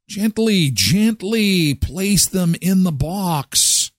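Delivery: gentle, slow. Real, not acted.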